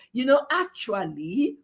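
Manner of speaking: lightly imitated British accent, rising at the end; mock British accent. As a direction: put on a teasing British accent. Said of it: "that your British accent".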